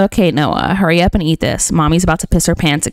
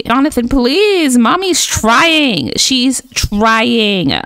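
drawn-out, higher-pitched exasperated plea; pleading; 5 semitones higher, much slower than usual. Pretend. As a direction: beg a fussy toddler, stretching the words. Pleading with crying sim toddler.

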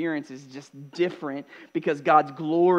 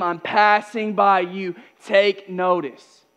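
building declaration. Acted. Jesus reveals himself to the disciples, building declaration.

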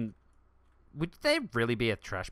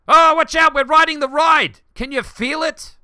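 high, loud thrilled shout; excited; 15 dB louder than usual. Real, not acted. Player cheering as the ride starts, loud excitement.

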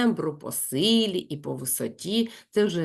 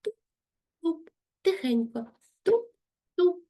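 stomp sounds; 10 semitones higher, slower than usual. Shown as a demonstration. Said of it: "І дитина".

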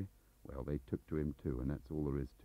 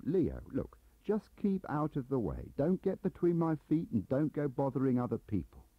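retold warning; 8 semitones higher, 4 dB louder than usual. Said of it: "I said to Leo".

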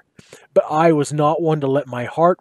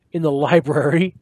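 smirking; 3 dB louder than usual. Acted. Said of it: "I said with a smirk".

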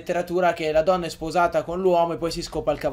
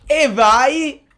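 cheering; 8 semitones higher, 8 dB louder than usual. Real, not acted. Cheering the find.

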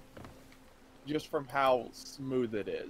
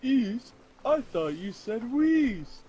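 incredulous; 10 semitones higher, 6 dB louder, much slower than usual. Real, not acted. Mock outrage over directions.

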